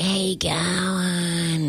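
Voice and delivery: put-on very slow, slurred drunk greeting; a drunk stranger interrupting her journaling, slow and slurred; drunk guy. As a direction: drag it out like a drunk.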